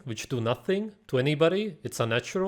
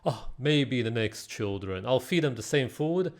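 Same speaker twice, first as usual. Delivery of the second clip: mocking believer. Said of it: "and then you say".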